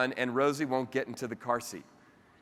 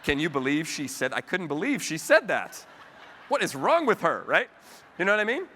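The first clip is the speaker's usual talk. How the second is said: mock gossip; 3 semitones higher, 4 dB louder than usual. Acted gossip after meeting.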